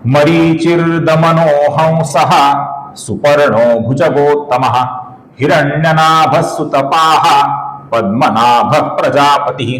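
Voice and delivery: slow, measured Sanskrit chant; slow devotional recitation; shloka recitation. Shown as a demonstration. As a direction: recite each half-line deliberately, pausing between.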